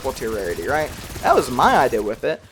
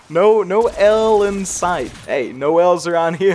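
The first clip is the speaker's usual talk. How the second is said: ordinary delivery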